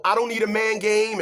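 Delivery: mocking sassy woman. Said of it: "that old ... game".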